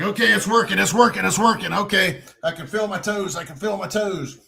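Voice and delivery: high, repetitive self-reassurance; acted-out relief. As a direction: replay talking a numb leg awake. Leg wakes up, self-talk.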